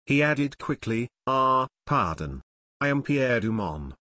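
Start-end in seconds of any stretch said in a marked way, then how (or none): 1.2-4.0 lightly voiced French accent; polite French manager, lightly accented. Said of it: "The manager spoke with a French accent".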